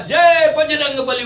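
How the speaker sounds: high, loud, slow battle chant; war cry. Retold or imitated. Porter hurling the man through the window, loud slow war cry. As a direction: bellow it like a wrestler's slogan. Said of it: "नारा लगाया".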